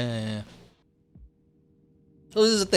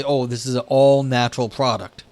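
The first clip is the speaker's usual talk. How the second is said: louder, salesy mock pitch of a product; 5 dB louder than usual. Mocking marketers who sell all-natural products, louder salesy voice. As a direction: hype it like a cheesy commercial. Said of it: "because they say".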